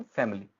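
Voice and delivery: फैमिली with M and I blended, "fam-li"; blended pronunciation. Shown as a demonstration. Teacher demonstrating the blend, फैमिली in two syllables. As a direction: merge the middle of "फैमिली". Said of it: "एम plus आई की आवाज़ जो है mix".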